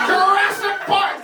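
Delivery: slow, loud and high "Jurassic Park!"; loud title call. Real, not acted. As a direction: announce it like a trailer. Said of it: "calling out title".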